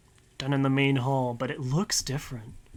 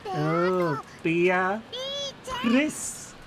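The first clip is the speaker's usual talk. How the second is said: put-on little girl voice; 5 semitones higher, much slower than usual. Maria's childish voice naming Beatrice.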